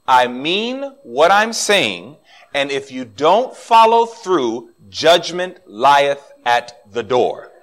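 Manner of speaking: slow, weighty father's warning; mildly voiced solemn father; slow stern warning. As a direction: spell out the threat slowly, word by word.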